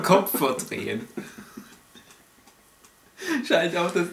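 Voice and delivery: podcast host. Acted. Mock podcast host sign-off.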